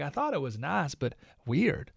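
lightly voiced Tennessee Southern accent; imitated Southern accent. Husband retelling his wife's story, imitated Southern accent. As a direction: put on a slight Southern twang. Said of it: "because of her Southern accent".

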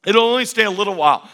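now proclaim it to the room. Shown as a demonstration. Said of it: "repeated louder".

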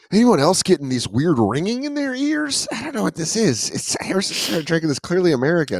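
high-pitched mock complaint; mock distress. Acted sufferer of the drink.

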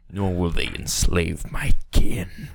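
slow, solemn vow; slow it down with a hint of gravity; lightly voiced demon-turned-sage. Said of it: "to wise old man".

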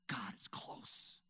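slow, soft whisper. Real, not acted. Preacher telling the congregation, slow whisper. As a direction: let God is close hang in a hush.

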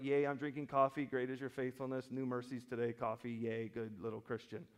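glib, offhand imitation of a contented believer; mild sarcastic coffee-mug piety; mock cheer. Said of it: "you're like".

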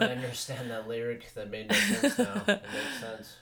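high, loud stoner epiphany; stoned revelation. Retold or imitated.

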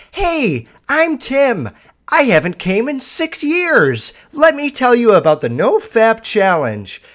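mock a grinning self-help video host; cheesy, over-bright infomercial guy; Tim the robotically happy guy. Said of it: "a guy that's, like, robotically happy".

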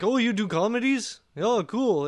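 bad German accent. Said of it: "can't even do a German accent".

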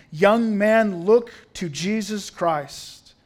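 acted Methodist preacher calling out loudly; preacher's shout. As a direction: shout it out, stretching the last words. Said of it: "Then he shouted".

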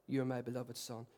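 put-on God's whisper to his child; tender Father's voice. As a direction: speak it like a loving father. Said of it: "the voice of the Father saying".

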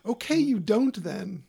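slow mock assistant voice; imitating Siri. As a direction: quote the assistant's snub slowly. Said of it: "What did she say?".

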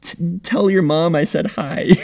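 lightly put-on Boston accent, slow, amused; Boston guy accent. Shown as a demonstration. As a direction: drawl it slowly as a Boston guy. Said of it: "a lot of Boston guys say".

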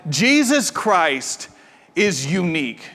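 very slow, portentous; slow solemn announcement; dramatic reading. Retold or imitated. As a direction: read it like movie trailer text. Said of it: "it's like".

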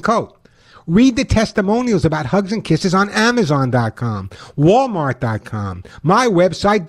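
upbeat radio ad read; chipper 1950s ad. Acted. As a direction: sell it like an old-time pitchman. Host reads his own ad.

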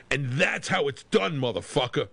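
a hint of Mendoza's swagger, slowed down. After punching the drummer, a mild mock Mendoza taunt. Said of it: "in a Mendoza voice".

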